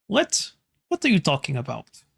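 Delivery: a hint of a small ghost girl who doesn't understand; confused ghost child. Ghost girl puzzled by the visitors, light childlike voice.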